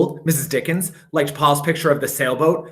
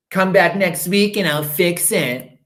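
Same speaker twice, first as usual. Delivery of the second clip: dentist; 3 semitones higher, slower than usual. Acted. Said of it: "said Doctor Fields".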